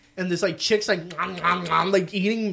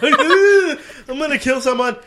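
mock rage; 10 semitones higher, 9 dB louder, slower than usual. Storming down to confront.

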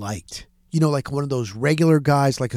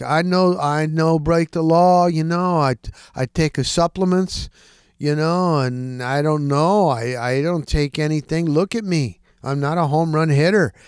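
lightly imitated broken English; halting, foreign-sounding broken English; broken English accent. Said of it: "He had broken English".

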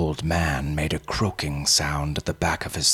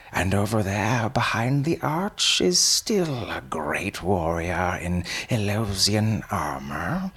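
put-on old man voice; 4 semitones higher than usual. Old man points at corpses.

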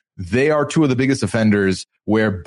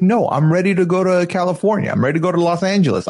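mildly insistent, higher quoted voice; retold insistence; 5 semitones higher, faster than usual. Host voices Miona turning down the plan, lightly insistent. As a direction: lightly imitate a firm refusal, pitched up. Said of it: "She's like".

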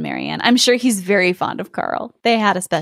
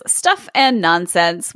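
dismissive; 4 semitones lower, much slower than usual. Acted. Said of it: "burgermaster says".

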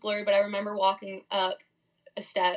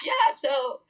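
laughing sheepish announcement; 9 semitones higher than usual. Retold or imitated.

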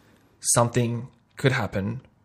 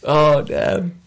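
louder, slow, laughing exclaim; laughing mock defeat; 7 semitones higher, 7 dB louder, slower than usual. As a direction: play it like you got got, laughing. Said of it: "And I'm like".

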